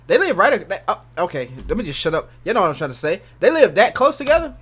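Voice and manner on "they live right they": higher-pitched restart that breaks off; tongue-tied false start; stuttering. Real, not acted. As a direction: stumble and cut the phrase short. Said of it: "I don't know why I'm stuttering".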